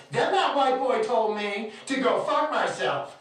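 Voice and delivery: slow, high, loud imitation; indignant woman fan. Fan telling her friends her version, mock indignant. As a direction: mimic her outraged complaint, drawn out. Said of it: "She's telling them the conversation we just had".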